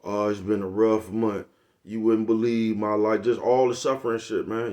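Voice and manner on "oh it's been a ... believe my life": mock sufferer. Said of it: "try to seduce you with they suffering".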